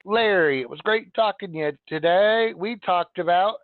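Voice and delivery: mock email recap. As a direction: parody an over-eager agent reading his email. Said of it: "We're like".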